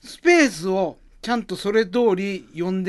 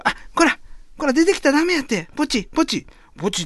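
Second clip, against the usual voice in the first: put-on flustered boy hushing pet; 10 semitones higher than usual. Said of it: "始まりの街というネタ".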